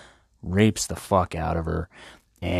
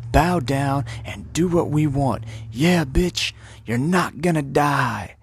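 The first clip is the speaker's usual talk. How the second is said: rowdy cheering court; 9 semitones higher than usual. Retold or imitated. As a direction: whoop it up as a crowd of fed-up women. Voices the whole court cheering.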